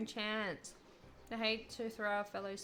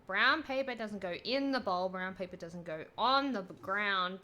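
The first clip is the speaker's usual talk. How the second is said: loud exasperated lecture; scolding; 6 dB louder than usual. Acted. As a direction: hammer the rule home. Character lecturing about toilet rules.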